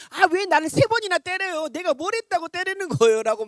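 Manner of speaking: high, loud plaintive donkey voice; talking donkey. Acted. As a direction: whine it like the beaten donkey protesting. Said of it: "말하면서 낙이가 했다라는 거야".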